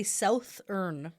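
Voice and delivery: "southern" with the vowel and th of "south"; imitated SOUTH-ern. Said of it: "you say it like you say".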